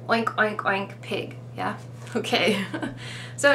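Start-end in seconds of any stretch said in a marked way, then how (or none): 0.1-1.0 pig oink imitation. Shown as a demonstration.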